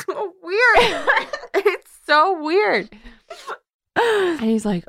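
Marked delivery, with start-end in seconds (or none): 0.1-2.9 high squeal through laughter; laughing disbelief. Real, not acted. Reacting to the absurd book scene, laughing hard. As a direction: crack up, stretching the words out high.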